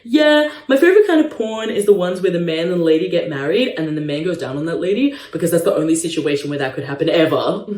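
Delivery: a hint of a dumb guy voice, slightly fast; lightly mock him as dim. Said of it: "him in his dumb voice being like".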